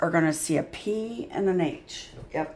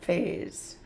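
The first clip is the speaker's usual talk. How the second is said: whispered; 8 dB quieter than usual. Shown as a demonstration. Teacher repeating the word softly for kids: whispered Phase. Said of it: "sneaky Z sound".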